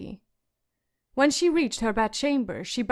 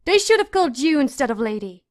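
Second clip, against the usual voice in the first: loud, higher, spiteful jab; screaming insult; 3 semitones higher, 7 dB louder than usual. A narrator's reading. Sansa keeps screaming at her sister, spiteful. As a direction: keep shouting the insult at her. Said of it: "she screamed at her sister".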